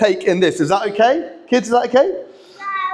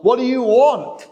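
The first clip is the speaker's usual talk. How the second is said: higher-pitched, pushing back on the question; resisting the question; 5 semitones higher than usual. Acted. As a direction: say it as a challenge, pitched up. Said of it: "puts the emphasis on resisting the question".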